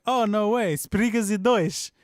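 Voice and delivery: high, loud retold excitement; excited disbelief. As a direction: re-enact being thrilled by the news. Retelling own thrilled reply to friend.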